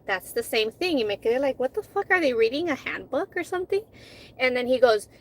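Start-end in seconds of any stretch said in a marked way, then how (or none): 1.6-3.8 pitched up in mock disbelief; incredulous inner rant, high and quick; a mock-baffled traveller asking if the officers read from a script; exasperated disbelief.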